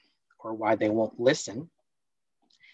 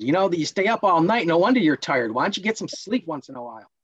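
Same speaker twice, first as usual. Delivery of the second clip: lecturing parent; 4 semitones higher, faster than usual. Acted. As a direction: scold the tired kid. Role-play parent dismissing tiredness.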